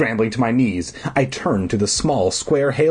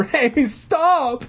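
calling out; 13 semitones higher than usual. Acted. Character calling after door.

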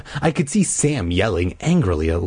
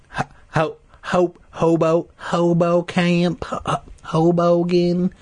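high, halting silly repetitions; playing with Hoboken; 9 semitones higher than usual. Reader riffing on the town name, silly high voice. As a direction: toy with the sounds in a high voice.

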